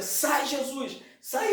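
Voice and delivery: high, drawn-out mock yell; acted angry command. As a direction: play a furious father driving someone out. Father beating son, yelling. (imitando um pai furioso, voz aguda)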